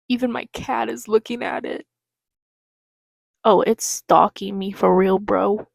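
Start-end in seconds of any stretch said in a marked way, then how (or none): 3.4-5.7 loud real alarm at the wasp; nervous loud complaint; freaked out. Real, not acted. Wasp keeps circling her.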